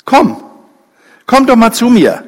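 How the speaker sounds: lauter, höherer Ruf, einladend; calling her over. A narrator's reading. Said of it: "Und er ruft sie wieder". (laut und hoch rufend, einladend)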